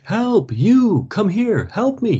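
high, urgent calls; man in the river shouting to the men. A narrator's reading. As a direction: yell for them to come. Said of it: "he shouted".

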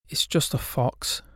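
whispered. Acted. Ghost says it flatly.

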